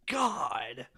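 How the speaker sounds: a breathy, whispered "God" of disbelief; exasperated whisper. Real, not acted. Co-host reacts to clip.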